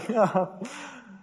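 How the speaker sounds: high chuckle after a quip; short laugh. Real, not acted. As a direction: laugh lightly at your own joke.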